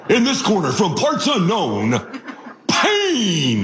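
mock ring announcer. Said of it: "Or maybe a W W F superstar".

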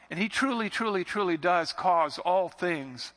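truly, truly, truly slowed and lifted; emphatic truly. Acted. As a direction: lean hard on each truly. Preacher stressing truly.

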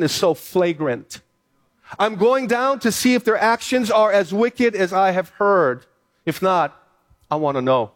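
steady pulpit reading of the story; scripture reading. Acted. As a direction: read the passage like Sunday scripture. Reads Genesis passage aloud.

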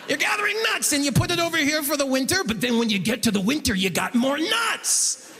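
high, hurried explainer slowing for the payoff; mock banker talking down to a customer; condescending banker voice. Banker dumbing down investing for the comedian, patronizing voice. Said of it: "that's the voice he's using too".

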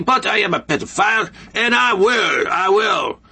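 mock Guatemalan coach with a loose Latin accent; a faint Guatemalan accent that drifts toward French; lightly done Guatemalan accent. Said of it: "that accent almost sounds French".

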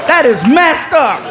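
slow, high, amused protest; drawn-out laughing complaint. Acted. Neighbor laughing at the prank, slow amused protest. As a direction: laugh through it slowly.

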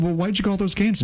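astonished son asking his mom; surprised question. Retold or imitated. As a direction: ask it like you can't believe it. Son asks mother in disbelief.

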